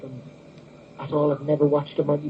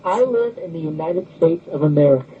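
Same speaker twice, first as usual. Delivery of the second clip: attempted American accent; 3 dB louder than usual. Shown as a demonstration. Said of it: "your impression of the U S accent".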